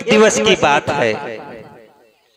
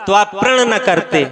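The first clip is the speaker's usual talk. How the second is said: daughter pleading. Retold or imitated. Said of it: "उसने बताया कि".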